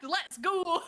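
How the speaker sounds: slow, high, laughing Scottish try; Scottish accent attempt. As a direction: push through the put-on Scottish. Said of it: "try to do a Scottish accent".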